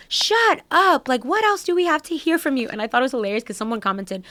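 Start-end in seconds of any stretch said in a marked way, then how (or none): 0.1-2.7 higher mock exasperated Bethany; imitating Bethany. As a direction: roll your eyes and tell them to shut up, her way. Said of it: "her being like".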